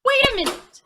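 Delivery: high, urgent call to someone leaving; calling after him. Acted. Reporter calls after the detective walking off, high and urgent. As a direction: shout after him so he waits.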